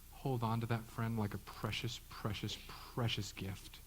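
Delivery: slow, soft and tender; softly savoring. Real, not acted. Pastor urging the congregation to treasure honest friends, softly. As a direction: linger over each precious.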